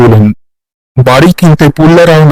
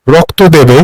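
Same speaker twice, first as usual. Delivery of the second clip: menacing ghost. Acted. Ghost asks for blood.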